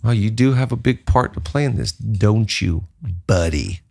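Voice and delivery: low, teasing scold of himself; mock self-scolding. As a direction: wag a finger at your own reflection. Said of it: "look me in the mirror and go".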